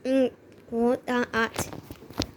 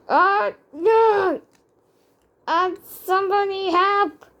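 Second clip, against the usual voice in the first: mock panic; 5 semitones higher, 3 dB louder than usual. Toy bird cries for help.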